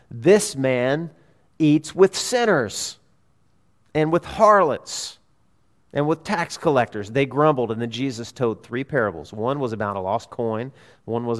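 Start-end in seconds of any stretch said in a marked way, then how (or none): 0.1-7.1 slow, drawn-out accusation; mock disapproval. Preacher quoting Pharisees grumbling at Jesus, slow mock disapproval. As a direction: imitate a grumbler, dwelling on each offence.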